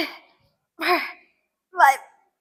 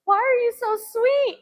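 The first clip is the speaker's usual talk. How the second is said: gushing; 9 semitones higher than usual. Retold or imitated. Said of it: "I was like".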